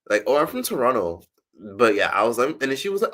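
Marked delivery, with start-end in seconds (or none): 0.3-1.2 lightly put-on Canadian accent, a bit higher; a rapper's voice. Woman showing how the rapper talks, light Canadian accent. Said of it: "that's how Drake talks".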